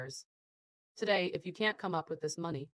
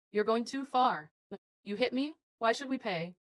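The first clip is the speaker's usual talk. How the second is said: indignant protest; 5 semitones higher than usual. Acted. Indignant victim refuses to pay.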